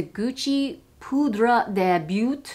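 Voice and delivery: slow, careful bad French accent. Shown as a demonstration. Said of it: "my French accent is terrible".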